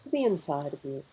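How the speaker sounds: unhurried meditation guide, long pauses between phrases; guided meditation. Real, not acted. Guide leading live listeners through a mindful pause, guided meditation. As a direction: guide listeners gently inward, phrase by phrase, leaving space to breathe.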